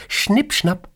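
Schnipp, schnapp as a high sing-song snip; snipping scissors sound. Acted. Boss miming scissors at her employee, high playful snip. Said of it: "Sie nimmt eine Schere".

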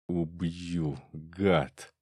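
put-on a restrained drunken growl of rage. A narrator's reading. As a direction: growl the threat through the teeth. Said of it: "зарычал Щеглов".

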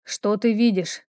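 slow, silky question; insinuating voice. Acted. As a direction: coax the answer out. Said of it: "Этот вкрадчивый голос".

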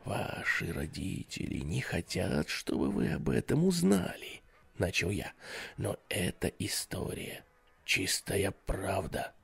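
soft, ominous storytelling hush; sinister hush. Acted. Babysitter scares the kids, soft sinister hush. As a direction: lean in and hush it menacingly. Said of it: "зловещим шепотком".

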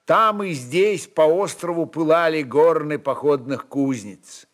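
ordinary delivery, nothing marked

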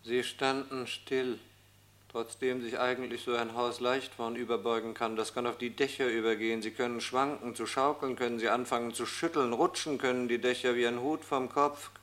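soft, high, haunted musing; hushed uneasy imagining. Acted. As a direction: murmur an anxious inner thought. Imagines roofs sliding off houses.

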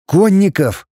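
high-pitched astonished echo; surprised. A narrator's reading. Prince taken aback by the voivode's report, surprised. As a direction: repeat the word in open disbelief. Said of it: "удивился Изяслав".

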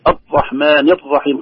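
"الرحمن الرحيم" with the r pressed tight, no trill; over-tightened r. Retold or imitated. Teacher imitating fear of trilling, over-tense r in "الرحمن". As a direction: clamp down on each ر. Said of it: "أو يشدها".

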